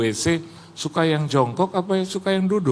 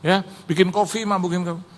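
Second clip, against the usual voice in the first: retold calling out; 6 semitones higher than usual. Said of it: "Terus saya bilang".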